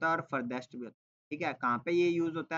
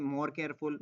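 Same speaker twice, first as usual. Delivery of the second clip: slow example reading; much slower than usual. Shown as a demonstration. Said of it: "more और most का use".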